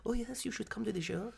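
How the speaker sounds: high, lightly voiced diva playing along; breezy star humouring a fan; playful singer voice. Host imagines a singer humouring a fan, light high diva voice. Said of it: "She'd be like".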